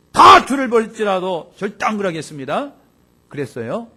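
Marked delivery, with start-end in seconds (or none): 0.1-2.7 loud, higher declaration of loyalty; Peter's angry vow. Retold or imitated. Peter shouting his vow of loyalty at the Lord, loud and higher. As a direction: proclaim it hotly, as Peter insisting. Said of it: "화를 내면서까지 주님께 그랬어요".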